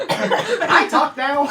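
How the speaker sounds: slow, high cartoon quote; quoting the show. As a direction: drawl it like the cartoon. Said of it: "That was me purely quoting the show".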